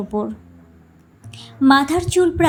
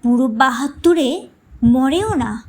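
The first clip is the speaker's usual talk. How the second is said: mild anger. Acted. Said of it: "মা রাগ করে বলে উঠলেন".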